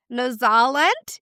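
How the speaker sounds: slow, badly faked Kiwi accent; hammed-up attempt at a Kiwi accent; bad New Zealand accent. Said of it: "that was a bad accent".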